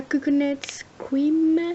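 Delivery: English words in a thick French accent; French accent on English product name; bad English accent. Real, not acted. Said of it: "mon accent anglais absolument pourri".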